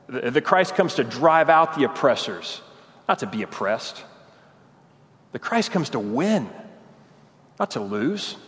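Peter refusing to hear of his Lord's suffering; indignant protest. Retold or imitated. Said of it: "all he can say is".

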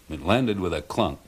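plain reading voice

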